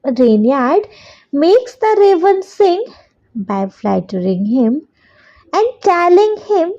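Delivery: very slow, word by word for copying down; slow dictation. Shown as a demonstration. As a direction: dictate it so children can write along. Dictating fourth answer.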